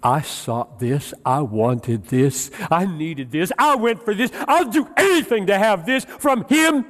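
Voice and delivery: acted yearning, rising steadily in pitch; building longing. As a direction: climb with each phrase into desperate wanting. Acting out the child's longing.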